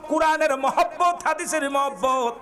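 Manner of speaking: high, emphatic address to the crowd; full-force preaching. Real, not acted. (উঁচু গলায় ওয়াজ)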